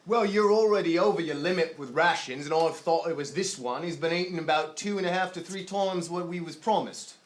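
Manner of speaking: lightly voiced gruff sailor complaining about rations; a hint of a put-upon quartermaster; grumbling ship quartermaster. Quartermaster complains to the mother about her son's rations, lightly voiced.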